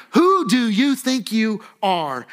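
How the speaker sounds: slow, emphatic acted demand; acted indignation, word by word; indignant challenge. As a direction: demand it as an affronted crowd, drawn out. Repeats the crowd's challenge.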